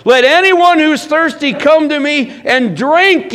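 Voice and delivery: high, loud, drawn-out call to a crowd; loud proclamation. Acted. Jesus calls to the thirsty at the festival, in a loud voice. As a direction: cry it out slowly over a festival crowd. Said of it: "said in a loud voice".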